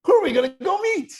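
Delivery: put-on very high, loud child's eager voice, fast at the end; excited little boy. Little son asking his mother who they will meet, excited child voice. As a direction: call out like a thrilled small boy. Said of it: "the way little boys do with the excitement in their voice".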